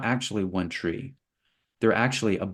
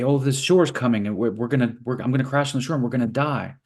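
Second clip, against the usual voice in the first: mock worry; 3 semitones higher, 3 dB louder, faster than usual. Wave panics about crashing.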